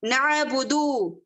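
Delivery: slow नअबुदु with a clear throat ain; careful ain. Shown as a demonstration. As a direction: model नअबुदु for the students. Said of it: "आइन के तलफ्फुज का ख्याल रखिएगा".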